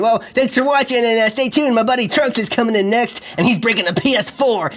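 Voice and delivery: YouTuber host. Acted. Plays YouTube show host.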